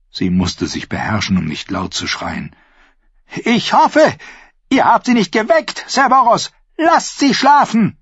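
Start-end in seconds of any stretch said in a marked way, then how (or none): 3.4-8.0 high, loud, mocking sweetness; queen sneering at Sir Boros, high and loud; icy sarcasm. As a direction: drip venom over the sleeping guards.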